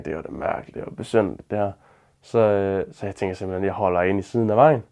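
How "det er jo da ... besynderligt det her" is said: whispered, much softer, talking to himself; hushed inner voice, puzzled; murmured thought. Retold or imitated. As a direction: mutter it under your breath as a private thought.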